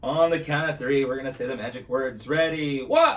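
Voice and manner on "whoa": surprised whoa. Real, not acted. Sudden surprise on stage.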